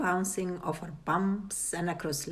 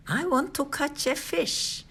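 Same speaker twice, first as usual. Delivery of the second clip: put-on impatient girl; 8 semitones higher than usual. A narrator's reading. Cheryl impatient.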